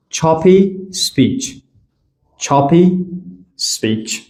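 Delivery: slow, with a gap between چاپی and سپیچ; چاپی, pause, سپیچ; choppy speech. Shown as a demonstration. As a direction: break چاپی سپیچ into separate pieces. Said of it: "چاپی سپیچ یعنی شما قطعه قطعه".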